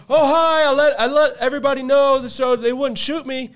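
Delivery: high, loud mock-sheepish greeting; sheepish intruder. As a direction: play the caught friend, all innocent. Imitating Philip caught sneaking in.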